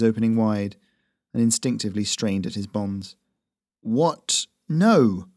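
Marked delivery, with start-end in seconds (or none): 3.8-5.3 startled waking cry. Acted. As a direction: jolt awake and protest. Prisoner wakes in panic.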